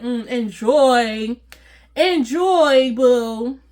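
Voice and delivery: sassy taunt. Retold or imitated. Taunting Tyrone's lunch date.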